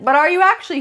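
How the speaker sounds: a knowing cosmic voice testing him; universe doubting Mark. Acted.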